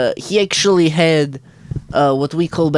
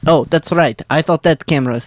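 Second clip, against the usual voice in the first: higher, scolding lecture; hammed-up scolding of Jimmy; mock scolding; 4 semitones higher than usual. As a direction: tell him off, theatrically.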